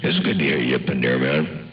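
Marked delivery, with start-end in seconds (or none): none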